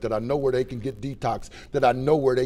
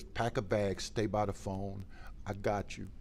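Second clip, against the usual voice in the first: much softer, slow and sure; quiet, steady reassurance; 6 semitones lower, 12 dB quieter, slower than usual. Retold or imitated. Old drinking buddy on the phone, quietly reassuring. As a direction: promise help without fuss. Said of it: "He said".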